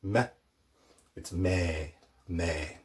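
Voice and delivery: "me" with a long ee, like "may"; teacher drawing out "me"; long vowel me. Shown as a demonstration. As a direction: stretch the vowel in "me". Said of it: "instead of just being like m".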